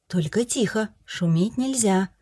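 quiet. Acted. Mother hushing child at night.

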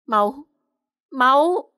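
a sudden high, loud cry of shock. Acted. Mỹ An sees blood beneath her, crying out in shock. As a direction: gasp it out, horrified at the blood. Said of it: "vô cùng kinh ngạc".

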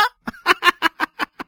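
short high laughing burst; Li's mocking laugh; high cackle. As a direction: cackle at him. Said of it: "他哈哈地笑着".

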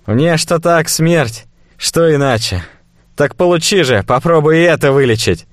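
cornered slaver, scoffing; nervous fat merchant. Acted.

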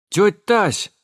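high, loud call of the name; yelled. Acted. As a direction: shout «Тётя Тась!» to cut in. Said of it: "заорала Жданка".

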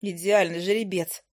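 ordinary delivery, nothing marked

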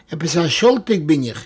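plain reading voice

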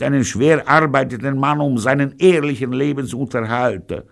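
high, loud, theatrical moaning about life; gloomy lament. A narrator's reading. Gangster bemoaning his lost livelihood to his dinner hosts, lamenting. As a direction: lament loudly in a high character voice. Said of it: "Pirolo war gedrückter Stimmung".

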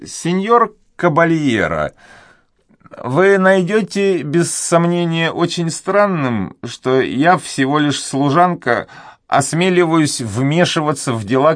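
put-on a fretful old servant afraid to speak; timid old duenna. A narrator's reading. Old duenna hesitating before the young nobleman, high and anxious.

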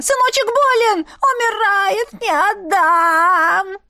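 crying, high desperate wail; mother wailing over her sick son; wailing plea. Acted. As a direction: weep and beg for the son.

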